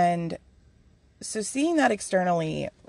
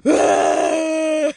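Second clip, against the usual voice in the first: high, loud fake sob; hammed-up crying howl; mock wail; 9 semitones higher, 7 dB louder than usual. Speaker breaking down at dad's kindness, mock wail. Acts out bursting into tears.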